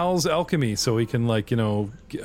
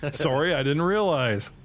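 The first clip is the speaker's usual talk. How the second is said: mock Canadian apology; slower than usual. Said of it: "people don't go up to Americans and go".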